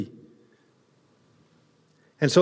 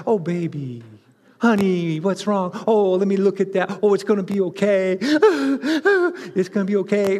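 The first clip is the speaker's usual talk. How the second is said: tender mom. Retold or imitated. Preacher imitating a mom comforting a hurt child, tender. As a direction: coo over the scraped knee. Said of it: "moms are like".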